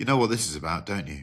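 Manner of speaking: low, dropped, knowing put-on character voice. Leaning in to do an impression, Chris Cooper impression. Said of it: "I'm going to do an impression of Chris Cooper".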